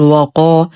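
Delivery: وقا with a thick, emphatic و like the ق; wrongly heavy waw. Shown as a demonstration. Teacher showing an error, waw made heavy in وقا. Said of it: "نخلص الواو من تفخيمها فلا نقول".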